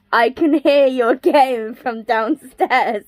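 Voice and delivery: slow, deadpan retelling of a complaint; unsmiling. Retold or imitated. Partner confronting her about the game, unsmiling. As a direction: imitate someone stone-serious, word by word. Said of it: "there was no smile in her face".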